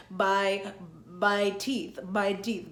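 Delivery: "by teeth" with B for M, stuffed-up nose; blocked-nose sounds. Shown as a demonstration. Teacher imitates a cold blocking "my teeth", stuffy. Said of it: "can't properly, like, say".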